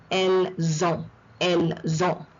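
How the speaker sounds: elles ont as "el; liaison. Shown as a demonstration. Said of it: "the S always goes into the".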